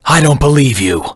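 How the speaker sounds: high, stunned denial; shocked disbelief. Acted. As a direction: reject the news in shock. Told he is an android.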